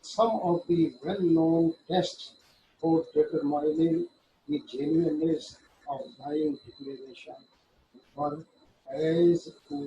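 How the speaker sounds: slow, deliberate reading of legal text; slow statute reading. Shown as a demonstration. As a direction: read the act slowly, word by word, as if dictating. Reads judgment text aloud. (धीमे-धीमे क़ानून की धारा पढ़ना)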